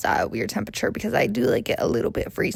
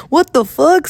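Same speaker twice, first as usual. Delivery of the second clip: mock outburst; 6 semitones higher, 6 dB louder than usual. Men reacting to her story.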